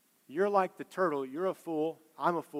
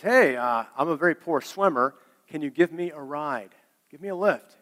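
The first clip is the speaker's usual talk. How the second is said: loud mock yell of a storytelling scorpion; calling out; 7 dB louder than usual. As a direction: call out loudly for a favour, lightly acted. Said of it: "yell at him from the side".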